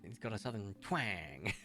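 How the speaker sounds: slow, lightly imitated southern twang; dad's southern twang, lightly mimicked. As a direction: draw TWANG out, mildly southern. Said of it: "he'd be like".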